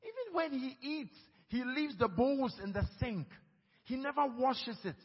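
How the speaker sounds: high, nagging wife voice; complaining wife. Retold or imitated. Pastor mimics a wife complaining about her husband. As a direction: whine it like a fed-up wife. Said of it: "the wife started going".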